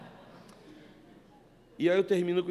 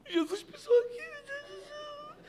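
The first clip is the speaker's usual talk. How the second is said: imagined crying. Pretend. Pastor imagining weeping in Jerusalem, mock tearful. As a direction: pretend sobbing, pitch rising high. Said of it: "Eu ia chorar o tempo todo".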